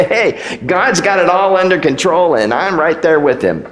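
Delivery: breezy put-on confidence, hey pitched high; mock upbeat facade; fake cheerful. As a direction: sound fine when you aren't. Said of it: "we put on a nice facade".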